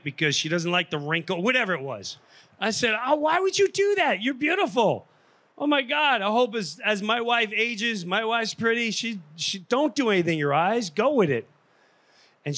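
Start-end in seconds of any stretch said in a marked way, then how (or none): 3.1-11.5 mock incredulous. Comedian comforting coffee shop woman.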